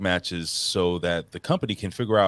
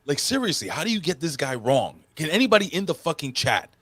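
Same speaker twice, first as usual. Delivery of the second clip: exasperated disbelief; 7 semitones higher than usual. Real, not acted. Outraged at booking decision.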